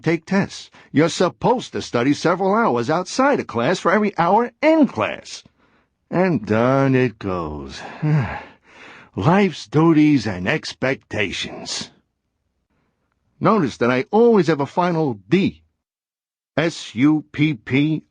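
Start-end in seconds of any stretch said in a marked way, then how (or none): 6.1-11.9 weary sigh. Acted. Cartoon character weary of duties.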